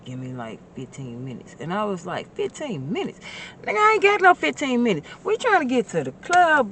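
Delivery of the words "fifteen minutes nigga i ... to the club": high, loud and fast, exasperated; fired-up retold protest; incredulous shout. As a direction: yell it like the idea is absurd. Retelling his refusal to the caller.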